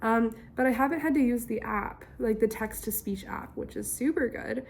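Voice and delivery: raspy, strained recovering voice. Real, not acted. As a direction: push words out through a raw throat. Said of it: "It's definitely raspy and I struggle on certain vowels".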